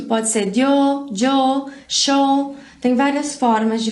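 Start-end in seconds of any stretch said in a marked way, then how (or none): 0.5-1.1 "dio" with a d-like start, said slowly; dio variant of yo. Shown as a demonstration. Teacher showing students a regional "yo" variant. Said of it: "Esse som pode mudar muito". 1.9-2.6 "show" with a sh sound for the y; sho variant of yo. Shown as a demonstration. Teacher showing students the Argentine "yo" variant. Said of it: "Esse som pode mudar muito".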